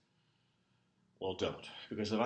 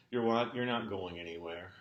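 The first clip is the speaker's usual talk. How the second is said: incredulous outburst; 4 dB louder than usual. Acted. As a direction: blurt it out, taken aback. Boss reacts to employee's news.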